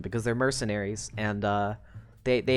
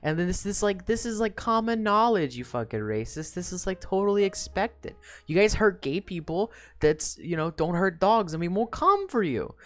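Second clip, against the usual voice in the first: higher-pitched, hurried explaining; Grue; 6 semitones higher than usual. Acted. Grue defends his teammate to Kaiser, higher placating protest. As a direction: pitch it up, talking the others down. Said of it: "And Gru's like".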